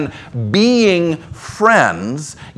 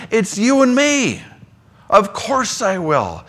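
higher, gentle, reassuring answer; Jesus reassuring; 5 semitones higher than usual. Acted. Jesus answering a tempted believer, gently reassuring. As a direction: answer like a friend who never hesitates.

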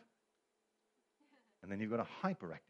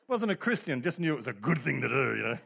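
laughing; 2 semitones higher, 5 dB louder than usual. Real, not acted. Preacher cracking up after yelling his lacrosse story, laughing loudly. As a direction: push the words out while laughing.

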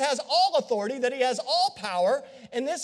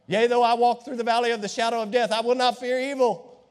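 loud recitation; 4 dB louder than usual. Acted. Preacher recites the psalm.

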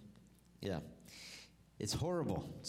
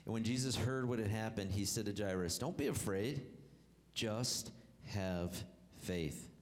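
scripture reading; 2 semitones lower than usual. Acted. Reads scripture aloud.

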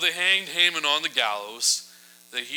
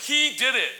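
pointed accusation; 11 semitones higher, 5 dB louder than usual. Retold or imitated. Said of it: "Esther's like".

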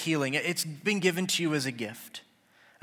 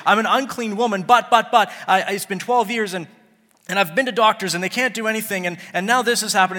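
louder, rushed, stammering plea; fearful confession; 4 semitones higher, 6 dB louder than usual. Acted. The healed woman to Jesus, stammering and afraid. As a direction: pour it out in a panic. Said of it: "she comes in trembling, fearful".

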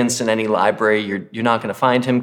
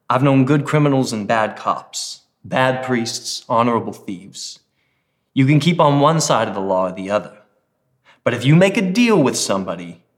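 lightly attempted Philly accent; a hint of tough Philly ex-cop, accent half there; Mike, bad Philly accent. Ex-cop Mike lecturing a new criminal, bad Philly accent. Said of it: "beyond my bad Philly accent".

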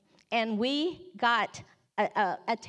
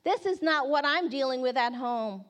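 angry outburst; 3 semitones higher, 3 dB louder than usual. Retold or imitated. Hurt girl rejects the card's picture, angrily. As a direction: imitate a girl slamming the card down. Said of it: "And then she slams".

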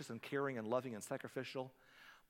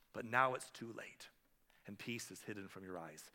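heartbroken lament; 3 semitones lower than usual. Retold or imitated. Preacher voicing Jesus weeping over Jerusalem, sorrowful and fading. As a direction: let the sorrow drain the voice away. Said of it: "don't miss this tone here".

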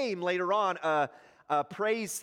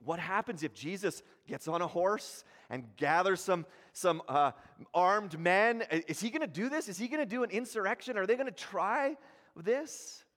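worried council. Acted. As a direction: voice the council's nervous panic. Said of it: "They're going".

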